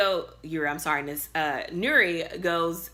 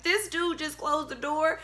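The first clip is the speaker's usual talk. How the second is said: much higher, slow, incredulous; outraged disbelief; 11 semitones higher than usual. Retold or imitated. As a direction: squeak it out in stunned outrage. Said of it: "I'm mad".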